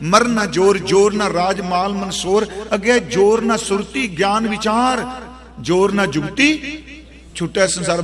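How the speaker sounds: lightly intoned recitation of gurbani, each line rising; scripture recitation. Acted. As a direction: recite the verse with devotion, lines lifting at the end. Recites Japji Sahib stanza. (ਗੁਰਬਾਣੀ ਦਾ ਹਲਕਾ ਜਿਹਾ ਪਾਠ)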